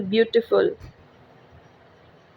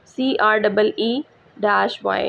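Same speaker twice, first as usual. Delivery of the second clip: spelling out letters; much slower than usual. Shown as a demonstration. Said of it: "this is creepy".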